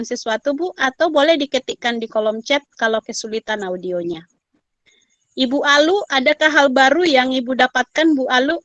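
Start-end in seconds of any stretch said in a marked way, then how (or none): 5.4-8.6 calling out. Real, not acted. Calling on remote participant.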